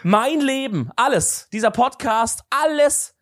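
high-pitched, overblown list of everything at stake; mock dramatic panic. To his friend, mocking his own ride fear, in a high frantic voice. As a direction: ham up the terror of dying on the ride.

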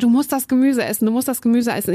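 mildly insistent repeated urging; retold badgering; imitated nagging. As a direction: pester like a friend who won't let go. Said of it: "hat die ganze Zeit".

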